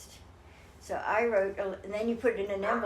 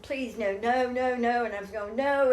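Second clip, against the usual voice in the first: rising retold cry of no, getting louder; mild mock scream, pushing it away; inner scream; 4 semitones higher, 6 dB louder than usual. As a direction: build each no higher and louder. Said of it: "screaming in my head".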